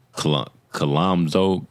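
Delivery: halting, slow stab at Colomzo; unsure pronunciation. Real, not acted. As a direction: stumble into the name Colomzo, restarting it. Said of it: "I can't pronounce it".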